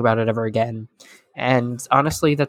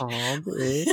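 laughing echo; 8 dB quieter than usual. Retold or imitated.

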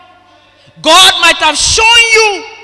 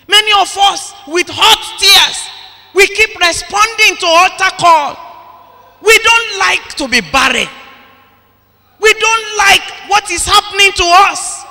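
ordinary talk

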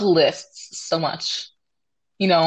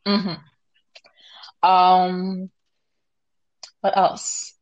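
whisper; much slower than usual. Real, not acted. Drops to whisper.

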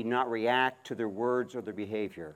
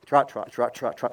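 loud driving horse call; 6 dB louder than usual. Real, not acted. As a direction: call it out to the mare. Driving the mare to trot.

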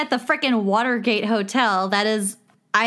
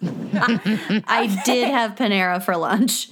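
laughing confession; 5 dB louder, slower than usual. Real, not acted.

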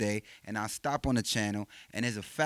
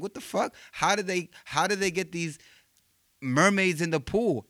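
put-on amazed kid; 7 semitones higher than usual. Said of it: "I'm like".

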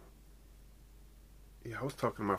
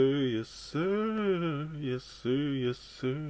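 hyped shout; 5 semitones higher, much slower than usual. Acted. Hyped repeated catchphrase.

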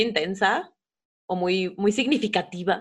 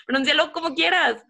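normal talking voice

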